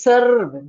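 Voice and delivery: "serve" with the r fully sounded; imitating over-stressed R. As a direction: lean hard on the r in "serve". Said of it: "Don't say serve".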